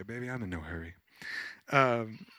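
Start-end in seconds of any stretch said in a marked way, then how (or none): 0.0-1.0 imitating a serene client, low and soft; soothing, softly settled reassurance; calm, unhurried. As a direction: say it low and easy. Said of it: "She was just calm".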